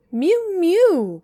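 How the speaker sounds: very high, loud mewing cry; a cat crying at the door. A narrator's reading. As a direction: wail it like a shut-out cat. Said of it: "cried Simpkin".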